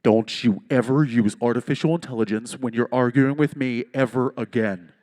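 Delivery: a hint of a stern scolding wife; lightly voiced furious wife; retold angry wife. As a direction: scold him like an annoyed wife. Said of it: "Her instant response was".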